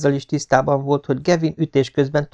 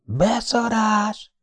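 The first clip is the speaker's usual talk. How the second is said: awed exclamation; 12 semitones higher, much slower than usual. A narrator's reading. Nathan awed outburst.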